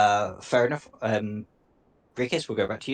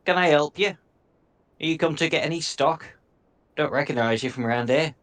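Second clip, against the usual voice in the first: gnome voice; 4 semitones higher than usual. Acted. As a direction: play a chirpy little gnome.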